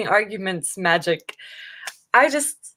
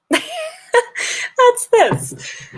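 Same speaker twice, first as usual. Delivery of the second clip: high-pitched laughing squeak; squeaky high. Shown as a demonstration.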